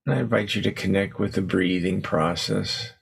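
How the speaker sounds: unhurried meditation guidance with long pauses; guided meditation. Acted. Teacher settling the group into posture and breath, guided meditation. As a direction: ease them gently into stillness, leaving space between phrases.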